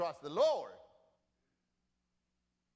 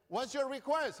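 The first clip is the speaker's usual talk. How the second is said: king's question; 9 semitones higher, 5 dB louder than usual. Acted. King voiced in retelling.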